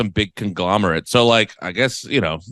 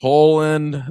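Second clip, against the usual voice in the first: higher-pitched try at a Polish accent; attempted Polish accent; 4 semitones higher than usual. Shown as a demonstration. Trying again to find the accent, attempted Polish accent. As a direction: test a Polish accent on one word. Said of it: "try to do a Polish accent".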